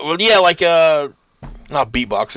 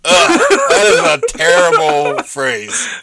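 disgusted groan; 2 semitones higher, 3 dB louder, slower than usual. Real, not acted. Disgusted at the phrase.

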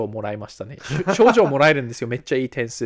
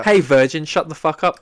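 loud joking jeer, laughing; mock heckle; 7 dB louder, much slower than usual. Student insulting the teacher for laughs, mock heckle. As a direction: play the rude student cutting in.

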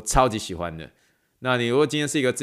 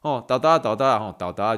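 coaxing in Taiwanese. Retold or imitated. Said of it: "这句台语蛮有意思的".

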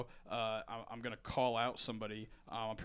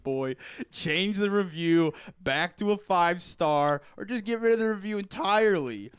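Randy Savage wrestling promo; 4 semitones higher, 7 dB louder than usual. Acted. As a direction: cut a loud promo like Macho Man. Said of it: "sound like Randy Savage".

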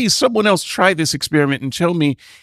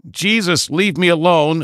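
mock incantation. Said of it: "I've made that incantation".

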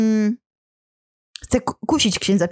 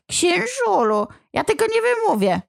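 whining demon; 9 semitones higher than usual. Acted. Demon begging the priest to spare him, high whine. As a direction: coax the priest like a sly imp.

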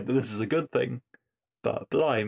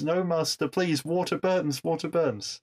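pleading; 5 semitones higher than usual. Retold or imitated. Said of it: "and Clark pleads".

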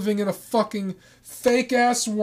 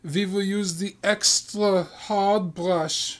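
strict German nanny; 3 semitones higher than usual. Pretend. Host playing the nanny threatening the kids, mock-stern German accent. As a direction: play a strict German nanny laying down the rules. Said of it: "I am Nanny Hilda".

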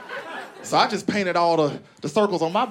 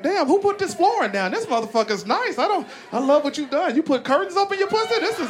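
higher, gushing wonder; amazed admiration; 9 semitones higher than usual. Pretend. A man admiring her place, gushing with wonder. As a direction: marvel at the decor like a house tour. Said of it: "You should be like".

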